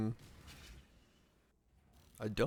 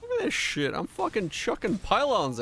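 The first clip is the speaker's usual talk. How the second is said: excited; 7 semitones higher than usual. Real, not acted. Reacting to gameplay.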